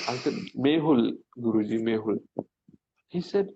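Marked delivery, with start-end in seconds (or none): 0.7-2.2 timid answer. Retold or imitated. Shyly telling guru his name.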